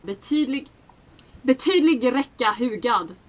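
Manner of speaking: Betydlig räcka hugad in native Swedish; Swedish pronunciation. Shown as a demonstration. Swede pronouncing IKEA names for forum friends, Swedish pronunciation. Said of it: "they wanted me to pronounce".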